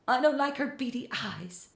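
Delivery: high screechy Philip, but quiet; a mild high screech of alarm. A narrator's reading. Philip screeching to Francois behind the door, high. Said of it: "Philip added".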